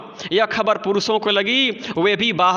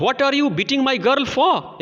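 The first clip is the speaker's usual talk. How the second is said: angry mother; 7 semitones higher, much slower than usual. Acted. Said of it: "said she".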